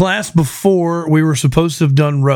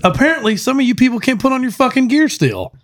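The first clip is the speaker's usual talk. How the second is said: 1 mock captain scolding; 9 semitones higher than usual. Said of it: "and says".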